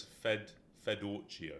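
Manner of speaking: Fedorcio said slowly, starting with a separate Fed; slow pronunciation. Shown as a demonstration. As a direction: carefully sound out Fedorcio for a listener. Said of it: "Please say it slowly for us".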